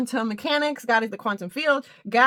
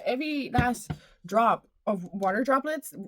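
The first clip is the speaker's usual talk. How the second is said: phrase repeated with a lilting rising lift. Shown as a demonstration. Vlogger repeating her phrase with a rising lilt. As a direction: let it float up at the end. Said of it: "repeated phrase, far voice".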